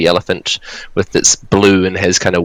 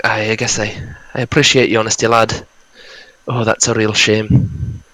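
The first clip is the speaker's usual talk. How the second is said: put-on saddened Scottish accent. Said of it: "his northern Scottish accent".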